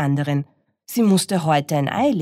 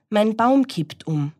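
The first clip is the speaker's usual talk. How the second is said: alarmed; 7 semitones higher, 3 dB louder than usual. Acted. Cat alarmed as tree topples.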